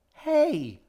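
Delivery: high, loud call after someone; shouting after her. Acted. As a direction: shout to stop a runaway child. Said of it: "G shouted after her".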